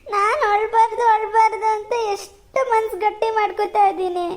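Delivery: acted tearful daughter's plea; holding back tears. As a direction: plead with father while fighting tears. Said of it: "ನಂಗ್ ಜೋರ್ ಅಳು ಬರ್ತದೆ".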